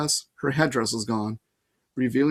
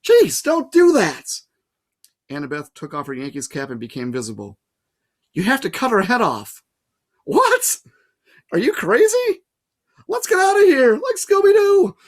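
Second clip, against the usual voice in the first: high, loud, frantic; startled panic; 8 semitones higher, 6 dB louder than usual. Acted. Percy startled and panicked at Annabeth. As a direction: yelp it in fright.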